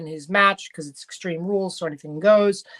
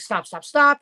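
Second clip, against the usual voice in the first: high, loud retold shout of stop; mock shout; 7 semitones higher, 6 dB louder than usual. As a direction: call out stop to break up the fight. Io breaks up the argument.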